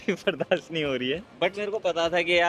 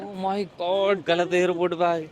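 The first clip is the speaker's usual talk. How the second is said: mock overreaction; slower than usual. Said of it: "over react करते".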